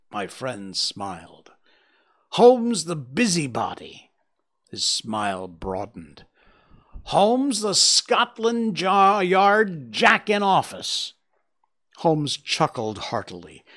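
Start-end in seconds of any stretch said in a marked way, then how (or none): 2.3-11.1 higher, louder mocking jeers; angry visitor taunting the detective; furious insults. A narrator's reading. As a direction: spit each insult at Holmes. Roylott insulting Holmes.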